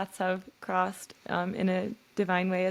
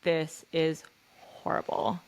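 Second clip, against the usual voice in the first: reassuring; 2 semitones lower than usual. Pretend. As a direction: hold her pain gently and promise hope. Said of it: "And I would say".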